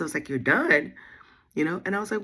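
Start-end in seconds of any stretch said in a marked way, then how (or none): 0.3-0.9 surprised. Retold or imitated. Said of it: "I was so surprised".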